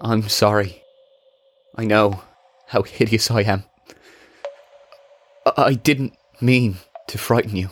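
lightly voiced shy creature, halting; vulnerable. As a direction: apologize gently, ashamed and unsure. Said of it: "vulnerability in his tone".

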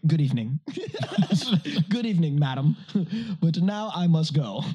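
lightly hammed-up proper gentleman, laughing through it; mock posh farewell. Telling friends how he fled the drunk girl, mock posh. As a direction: put on a mock refined goodbye. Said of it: "I was like".

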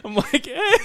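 laughing. Real, not acted. Laughing, unsure.

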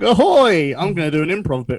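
hammed-up pirate shout; ahoy like a cruise pirate. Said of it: "pretending to be like".

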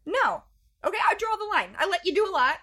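high, loud firm refusal. Retold or imitated. Mom retelling how she refused the taped invitation, loudly. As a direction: lay down the law. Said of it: "And I'm like".

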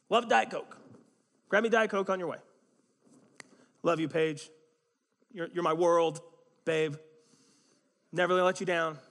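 loud, eager husband vows; hammed-up devoted husband; doting promises. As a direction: gush promises to wife.

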